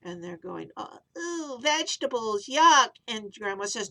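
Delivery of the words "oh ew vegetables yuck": mock disgust. Kids disgusted by vegetables.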